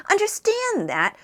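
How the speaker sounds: shouted. A narrator's reading. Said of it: "shouted Arthur".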